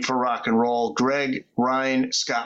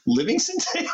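high, disbelieving question; who on earth is that; incredulous. Retold or imitated. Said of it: "And I was like".

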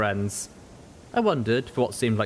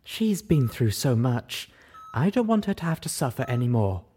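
tender admission; 4 semitones higher than usual. Acted. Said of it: "Velvet admitted".

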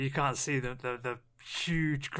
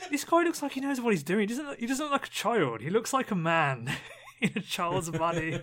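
mock impressed thought; 6 semitones higher than usual. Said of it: "And I'm thinking".

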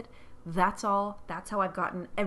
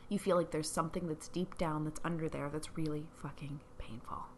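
whispered; 3 semitones lower, 5 dB quieter than usual. Retold or imitated. Retelling what she told client.

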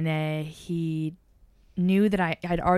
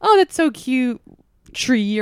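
teasing imitation of an Irish accent, louder; mimicked Irish accent; 5 semitones higher, 8 dB louder, slower than usual. Suitor teasing an Irish woman by copying her Irish accent. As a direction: playfully copy an Irish accent, higher-pitched. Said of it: "do their accent".

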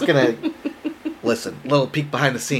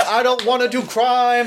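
high-pitched comic wail; high, hammed-up plea; mock whiny protest; 10 semitones higher than usual. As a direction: cry out in playful reluctance. Mock protest after doxing chant.

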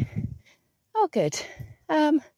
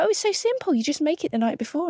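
mocking; 9 semitones higher, faster than usual. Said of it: "People are".

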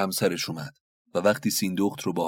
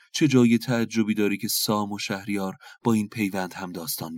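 kindly; 2 semitones higher than usual. Acted. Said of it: "سیندخت با مهربانی گفت".

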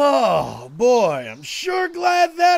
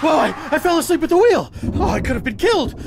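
panicked; 3 semitones higher, faster than usual. Acted. Waking in panic at wheel.

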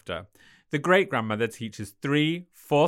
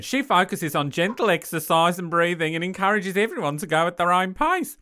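put-on Australian accent; 5 semitones higher, 3 dB louder than usual. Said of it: "she's gonna stay Australian".

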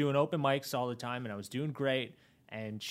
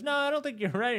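imitating Jimbo; 11 semitones higher, faster than usual. Retelling Jimbo's dismissal.

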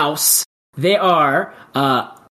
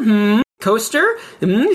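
coaster pitched up high as a question; rising questioning coaster; 4 semitones higher, slower than usual. Shown as a demonstration. Host teasing the guest, high rising coaster. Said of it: "See how I did that there?".

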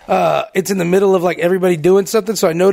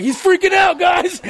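much higher teasing shout; mock excited shout; 10 semitones higher than usual. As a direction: yell it to the whole office, playfully. Teasing the host about the lights.

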